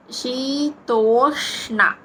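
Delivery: "శీతోష్ణ" slow, with curled-tongue ష్ణ; retroflex sha. Shown as a demonstration. Teacher shows the retroflex cluster, "శీతోష్ణ" said slowly. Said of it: "మూర్ధన్య ష".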